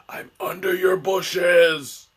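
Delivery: slow, hammed-up creepy rasp; slow whispery stalker voice, put on as a joke; mock creeper voice. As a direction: play a lurking creep for laughs. Joking as the expert creeper.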